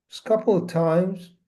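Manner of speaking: unhurried instructions with long pauses; spacious, measured meditation guidance; guided meditation. Acted. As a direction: guide listeners gently into stillness, phrase by phrase.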